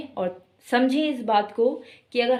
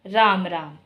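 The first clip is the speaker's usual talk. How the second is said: scornful Ram Ram, pitch falling away; contempt; 3 semitones lower, slower than usual. Shown as a demonstration. Teacher shows the greeting turned to hatred, scornful falling Ram Ram. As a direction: say Ram Ram as if disgusted by someone. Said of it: "ये बड़ा घृणा सूचक था".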